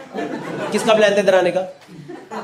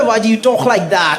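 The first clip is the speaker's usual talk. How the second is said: hammed-up puzzled friend; mock shout; much slower than usual. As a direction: call out the weird accent. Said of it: "और दूसरा बंदा".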